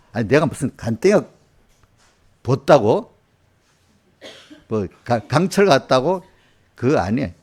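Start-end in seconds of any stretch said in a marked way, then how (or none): 0.1-6.2 a touch of put-on anger, louder on 벗다고; half-hearted indignant retort to fellow pastors; mock indignation. Pastor scolding colleagues who call him fearless, with mock indignation. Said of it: "일부러 그때는 화를 좀 내".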